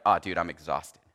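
low, soft, worn-out mock sigh of a tired colleague; exhausted. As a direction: play him as drained and spent. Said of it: "And he was like".

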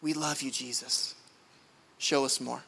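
low, earnest prayer response; fervent, meant. Shown as a demonstration. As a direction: say it like you mean it, low and measured. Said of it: "with that same fervor and passion".

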